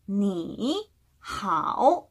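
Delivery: "니, 하오" slowly, each syllable dipping then rising; two full third tones. Shown as a demonstration. Teacher shows students the laborious way, two full third tones. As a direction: give both 니 and 하오 a complete dip-and-rise tone. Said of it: "삼 성과 삼 성을 같이 쓰면 어떻게 소리를 내야".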